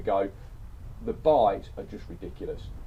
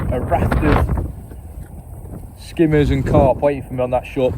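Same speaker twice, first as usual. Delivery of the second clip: raised voice against strong wind; shouting over wind; 8 dB louder than usual. Real, not acted. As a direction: project loudly over gusting wind. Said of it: "if you can hear me over the wind".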